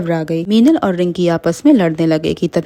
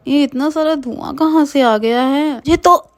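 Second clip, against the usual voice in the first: choking fear; 8 semitones higher than usual. Acted. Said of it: "Mona उठती है और कहती है".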